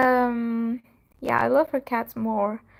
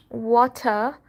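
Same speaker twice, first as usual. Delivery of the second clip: "water" in a Pakistani accent; Pakistani-accented "water", with a full T; 4 dB louder than usual. Shown as a demonstration. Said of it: "when we are talking in Pakistani accent".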